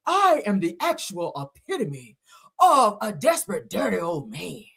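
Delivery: a touch of a put-on pastor voice; lightly voiced preacher confessing; reading in his voice. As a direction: read it like the pastor himself. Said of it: "I gotta read it in his voice".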